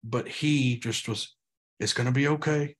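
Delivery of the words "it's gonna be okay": calm reassurance. Retold or imitated. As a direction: soothe a hurt six-year-old. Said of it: "he just held me".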